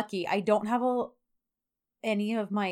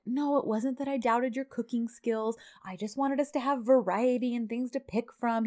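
lightly imitating a gentle partner; 3 semitones higher than usual. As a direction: soften it a touch, gently reassuring. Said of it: "He's trying to be very gentle with her".

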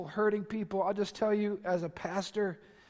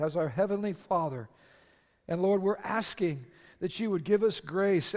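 steady, reverent prayer voice; congregational prayer; 4 dB louder than usual. Acted. Pastor praying over the standing congregation, reverently. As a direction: pray aloud over the people.

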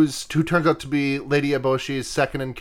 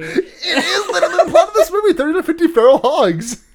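laughing while insisting it's true, pitch higher; 13 semitones higher, 5 dB louder than usual. Real, not acted. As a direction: burst out laughing in disbelief. Laughing at the coincidence.

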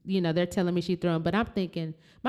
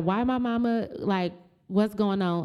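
going off; 3 semitones higher than usual. Retold or imitated. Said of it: "I'm going off".

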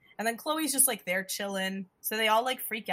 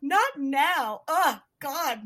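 high, loud retold brush-off; mock exasperation; 7 semitones higher, 7 dB louder, much slower than usual. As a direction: imitate an exasperated heroine fending someone off. Imitating heroine brushing off suitor.

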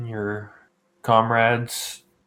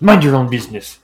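gruff snap; 3 semitones higher, 8 dB louder than usual. Acted. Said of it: "he goes".

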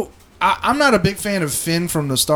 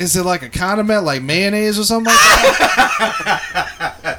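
slow, laughing through it; slower than usual. Retold or imitated. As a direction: giggle out the words slowly. Retelling his childhood guess.

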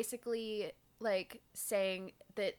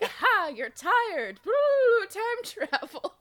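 slow, higher, louder gloating goblin; gleeful Drode; 12 semitones higher, 11 dB louder, slower than usual. Retold or imitated. Host voices the Drode springing time travel, gloating slowly. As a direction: drag it out with mischievous glee. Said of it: "And he's like".

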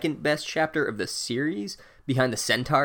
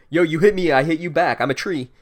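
lightly voiced feisty tree, louder start; mock tough tree; 3 semitones higher, 6 dB louder than usual. Whomping Willow to the boys who hit it, mock combative. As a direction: toss it out like a mock threat. Retold tree fighting back.

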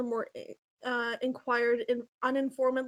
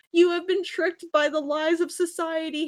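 mock shriek; 4 semitones higher than usual. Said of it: "shrieked knowingly".

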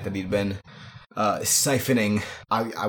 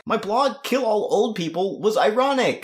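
laughing; 12 semitones higher than usual. Real, not acted. Joking, laughing through it.

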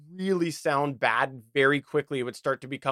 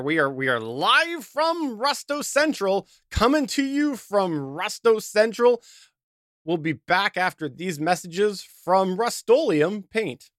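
slow, higher-pitched radio host send-up; mock broadcast announcer; 4 semitones higher than usual. Host testing the rusty mic on air, mock announcer. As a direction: stretch it out like a hammy live announcer.

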